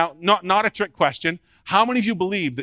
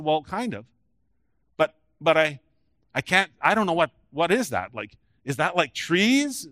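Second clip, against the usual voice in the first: hesitant, puzzled. Retold or imitated. Blind man unsure what he sees.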